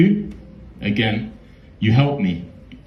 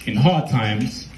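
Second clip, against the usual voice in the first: softer, choked with real emotion; emotional; 9 dB quieter than usual. Real, not acted. Poet revealing he was his own brother, softer and choked. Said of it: "so emotional".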